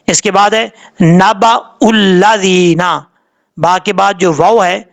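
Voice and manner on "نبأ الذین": slow نبأ الذین with a hamza, no w sound; hamza pronounced. Shown as a demonstration. Teacher modelling the hamza for learners, slow careful نبأ الذین. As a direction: catch the hamza in نبأ, then stretch الذین. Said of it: "حمزہ کو پڑھنا ہے".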